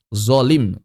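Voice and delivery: firm "Zolim" as the model word; thick z in "Zolim", said firmly; correct Arabic zo. Shown as a demonstration. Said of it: "bukan zolim".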